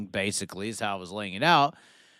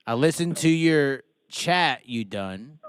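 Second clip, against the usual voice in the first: put-on light Australian accent; 2 semitones higher, slower than usual. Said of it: "Say it in an Australian accent".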